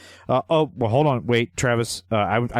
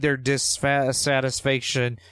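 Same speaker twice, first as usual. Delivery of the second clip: slight Southern drawl, drawn out slowly; Southern accent; 2 semitones higher, slower than usual. Real, not acted. Host reading the boss's email aloud, slow Southern accent. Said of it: "can't even say it without a Southern accent".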